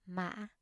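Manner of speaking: "mã" broken midway, then jumping up; "mã" in the broken rising Vietnamese ngã tone; high broken tone. Shown as a demonstration. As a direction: catch "mã" in the throat, then lift it. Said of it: "High broken tone or thanh ngã".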